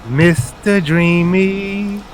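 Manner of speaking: slow, sing-song taunting call; drawn out slow sing-song. Acted. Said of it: "you hear a sing-song voice go".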